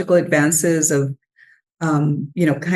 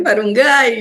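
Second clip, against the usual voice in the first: imitating emotional energy; 5 semitones higher, 4 dB louder than usual. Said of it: "with this emotional energy".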